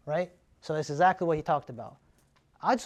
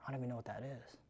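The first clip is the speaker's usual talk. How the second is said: confused seller; 4 semitones lower, 15 dB quieter, faster than usual. Acted. Seller in roleplay.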